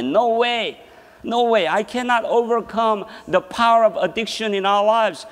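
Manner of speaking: firmly refute it, pitched high; emphatic rebuttal. Real, not acted. Preacher refutes addicts' false confidence, emphatic.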